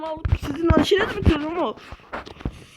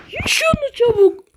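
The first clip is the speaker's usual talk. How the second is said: villain voice; 7 semitones higher, 4 dB louder than usual. Acted. Voiced villain ordering monsters.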